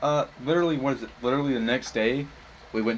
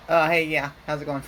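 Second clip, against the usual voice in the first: disguised voice; 4 semitones higher, 3 dB louder than usual. Retold or imitated. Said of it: "I try to make my voice sound like not my voice".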